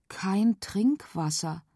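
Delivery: slow, mildly let-down; a touch of disappointment, drawn out; disappointed. Acted. Girl reads the warning sign, slow and mildly disappointed. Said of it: "stellte sie enttäuscht fest".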